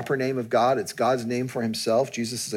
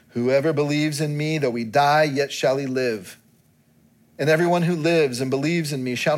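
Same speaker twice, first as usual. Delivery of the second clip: steady, measured Bible reading aloud; reading scripture to the congregation. Acted. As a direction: read the passage plainly to the church.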